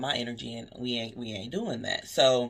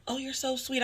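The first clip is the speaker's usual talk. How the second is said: much higher, gushing customer voice; imitating a gushing customer; 11 semitones higher than usual. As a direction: mimic the customer's cooing praise, pitched up. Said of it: "they're like".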